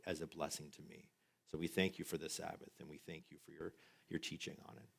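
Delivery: soft, hushed closing prayer. Acted. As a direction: pray quietly, fading toward the amen. Closing prayer after sermon.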